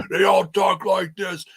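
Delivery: lightly imitated old-time wrestler voice; hammed-up wrestling talk; golden-era wrestler. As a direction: put on a wrestler's promo voice. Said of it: "they all sounded like that".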